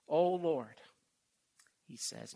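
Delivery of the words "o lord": loud, reverent scripture reading; psalm reading. Acted. Preacher calls out to the Lord in reading. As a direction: proclaim it to the congregation.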